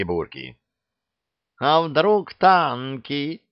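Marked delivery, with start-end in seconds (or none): 1.6-3.4 high, slow squealed worry; squealing. A narrator's reading. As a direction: squeal it like a nervous cat. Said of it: "взвизгнул Васька". (высокий протяжный взвизг)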